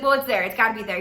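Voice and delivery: loud, flat-out refusing to accept it; imitating a pushy diner; aggressive insistence. Date insisting to hostess, loud. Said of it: "like, aggressive in a way".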